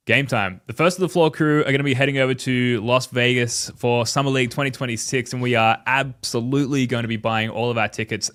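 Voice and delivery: upbeat sponsor read voice. Acted. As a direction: sell it like a radio ad. Sponsor ad read, noticed after.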